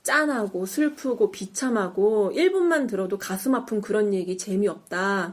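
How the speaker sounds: measured, low-key acted plea; mildly voiced, composed argument; calm persuasion. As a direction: reason with them evenly, slowing down. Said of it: "차분하게 설득을 합니다".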